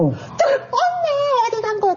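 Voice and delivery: high-pitched imitated child calling; children's voices. Children come back calling for mother, high child voice. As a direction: mimic a kid looking for mom. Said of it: "다시 아이들 목소리가 들리는".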